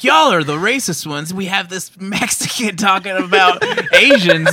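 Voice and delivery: mock accusers. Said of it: "these guys were like".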